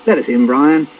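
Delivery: mildly cheery call; cheery dad. Acted. Dad at the locked door, mildly cheery. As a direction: call it lightly to be let in. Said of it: "says my dad cheerily".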